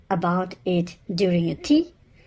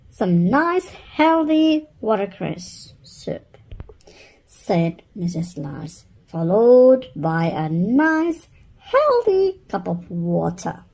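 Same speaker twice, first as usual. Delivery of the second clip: raised, sing-song offer; bossy cheerful mum; 2 semitones higher, 4 dB louder than usual. Acted. Mother offering soup to the children, bright and bossy. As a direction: present it like a treat.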